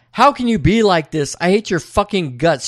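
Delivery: hammed-up furious shout; Audrey strangling Charlie, mock rage; mock yell.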